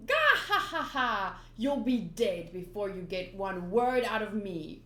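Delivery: loud evil laugh, then slow threat; villain cackle. Acted. Buggy mocking Luffy with a loud cackle. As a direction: cackle like a clown pirate.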